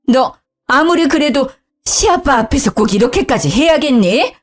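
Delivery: reproachful mother-in-law. Acted. Mother-in-law reproaching her daughter-in-law, high and cross. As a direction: scold her for shaming the son.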